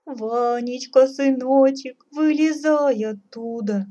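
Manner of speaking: high, loud motherly wailing; lamenting. A narrator's reading. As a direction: plead in a drawn-out lament. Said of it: "запричитала царица". (причитая, высоко и нараспев)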